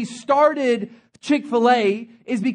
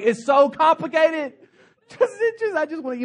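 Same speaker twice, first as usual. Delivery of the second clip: exasperated; 5 semitones higher than usual. Retold or imitated. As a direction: sigh it out like you've given up. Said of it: "I'm just like".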